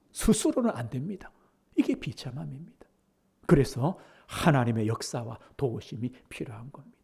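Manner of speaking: soft unvoiced whisper; hushed sermon aside. Real, not acted. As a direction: drop to a confiding whisper. Preacher whispers the point.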